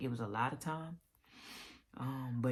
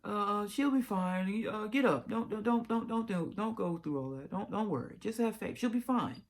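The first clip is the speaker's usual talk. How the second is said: much higher and louder, insistent mom reassuring; mother's voice; 9 semitones higher, 4 dB louder than usual. Retold or imitated. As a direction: pitch way up into a firm, pushy mother. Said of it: "I'm gonna do my mother's voice".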